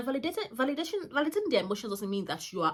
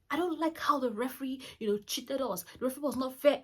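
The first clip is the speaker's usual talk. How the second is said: upset son complaining; 5 semitones higher than usual. Retold or imitated. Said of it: "it was like".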